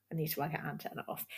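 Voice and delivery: fast, soft whisper to herself; hushed self-directed whisper; whispered aside. Real, not acted. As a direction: mutter it under your breath quickly. Muttering aside about laptop.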